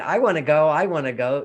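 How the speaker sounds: imitating an eager child; excited. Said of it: "So I'm, like, excited".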